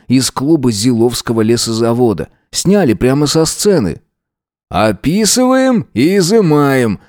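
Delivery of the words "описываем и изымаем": satisfied. A narrator's reading. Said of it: "удовлетворённо кивнул Васин".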